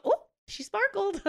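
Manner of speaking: high, sweet baby-talk imitation; dainty cooing. Retelling a friend holding the baby, high dainty coo. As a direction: coo it like a delicate euphemism.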